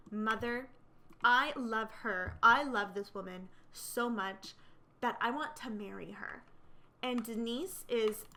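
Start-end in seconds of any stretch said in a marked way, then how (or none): 0.1-6.4 emphatic, deliberate declaration of love; flat-out declaration. Acted. Son confessing to his mother he wants to marry, firm declaration. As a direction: stress each "I love" firmly. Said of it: "tells her flat out".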